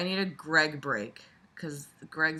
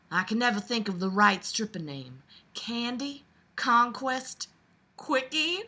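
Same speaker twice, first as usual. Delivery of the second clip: southern belle; 6 semitones higher than usual. Acted. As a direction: read it as a dainty Southern belle. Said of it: "I'll do this reading all in Southern Belle voice".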